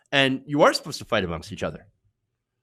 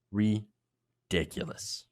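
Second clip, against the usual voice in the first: exasperated drawl; 5 semitones lower, 6 dB quieter, much slower than usual. Real, not acted. Disgusted repeat.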